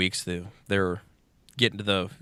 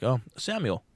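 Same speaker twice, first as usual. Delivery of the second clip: teacher voice; 4 semitones higher than usual. Retold or imitated. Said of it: "It's like".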